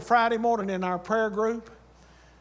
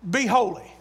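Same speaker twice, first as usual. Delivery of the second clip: weight put on "Be holy"; "Be holy" as the emphasized command; stress on BE HOLY. Shown as a demonstration. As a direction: land firmly on "Be holy", then fall. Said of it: "Where do we put the emphasis?".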